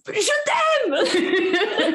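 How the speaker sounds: high laughing cry of love; mock shout. Woman daring listeners to shout love, laughing. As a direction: urge them to shout it. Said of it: "Essaye un jour de crier".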